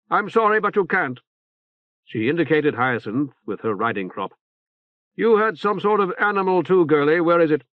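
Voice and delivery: lightly voiced stern woman officer; brisk, severe but sympathetic. Saber's voice.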